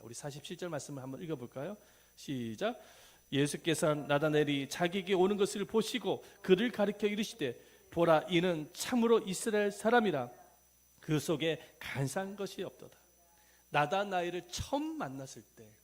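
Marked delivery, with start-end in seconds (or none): 3.3-13.0 loud, measured recitation of a Bible verse; scripture reading aloud. Shown as a demonstration. Preacher leads congregation in Matthew verse, loud scripture recitation. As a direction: declaim the verse firmly.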